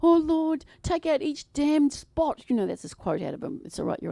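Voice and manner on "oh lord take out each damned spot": mock anguished plea. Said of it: "they go right into their spirit and they go".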